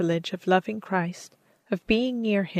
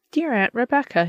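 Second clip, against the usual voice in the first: calling out; 5 semitones higher, 4 dB louder than usual. Acted. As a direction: call her name warmly across the distance, a bit higher and louder. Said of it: "she called as she drew near".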